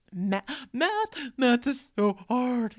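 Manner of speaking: put-on high, slow, loud whimpering kid; crying child. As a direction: stammer it like a sobbing boy. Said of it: "And I said".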